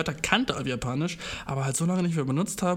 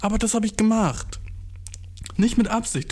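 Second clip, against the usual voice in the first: louder, higher mortified confession; embarrassed outburst; 7 semitones higher, 3 dB louder than usual. Real, not acted. He admits the creepy move, embarrassed and louder. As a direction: own up, loud and mortified.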